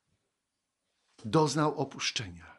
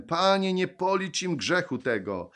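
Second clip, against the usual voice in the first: raised, higher pleading call in scripture reading; mild retold loud cry; 7 semitones higher, 6 dB louder than usual. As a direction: call out the prayer, without shouting. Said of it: "zawołał donośnym głosem". (lekko podniesione wołanie modlitewne)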